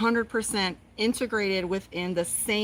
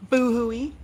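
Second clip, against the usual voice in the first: slightly raised mock boo-hoo; mock bawling; 3 semitones higher, 4 dB louder than usual. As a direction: imitate a little burst of tears. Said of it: "I just started bawling".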